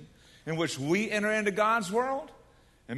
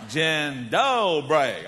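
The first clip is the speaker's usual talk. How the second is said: Polish "Dzień dobry" in a very slow Southern drawl; slow southern accent; 3 semitones lower, 4 dB louder, much slower than usual. Retold or imitated. Polish man repeats hello for the American, slow Southern accent. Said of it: "way down and say it with a, a southern accent".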